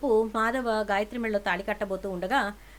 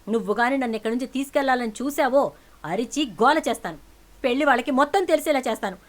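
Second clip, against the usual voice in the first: angry threat; 3 semitones higher, 6 dB louder than usual. Acted. Niece threatens her aunt, loud and defiant.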